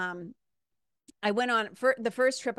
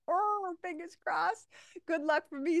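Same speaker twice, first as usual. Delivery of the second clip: hopeful aside; 10 semitones higher than usual. Real, not acted.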